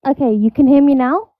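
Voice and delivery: muffled mic sound; muffled, as if behind a wall; through a wall. Real, not acted. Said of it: "you sound, like, muffled".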